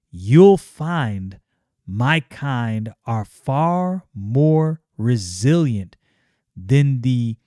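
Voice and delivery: slow, hungry menace; slow villain. Acted. Magus Numite gloats to Yaira, slow and hungry. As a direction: savour every word. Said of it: "And he says".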